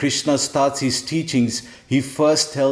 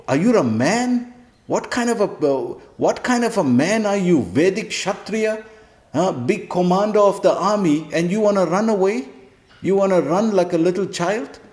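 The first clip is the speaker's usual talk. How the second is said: Krishna scolding; 6 semitones higher than usual. Retold or imitated. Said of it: "He says".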